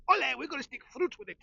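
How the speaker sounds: hammed-up Spanish chef, high and loud; cheerily mock the cooks adding fruit.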